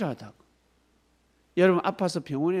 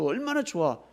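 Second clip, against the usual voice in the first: ordinary talk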